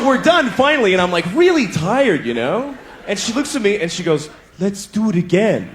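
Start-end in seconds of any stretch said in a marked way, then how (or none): 4.6-5.7 slow, eerie invitation; creepy. Retold or imitated. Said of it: "creepy like that".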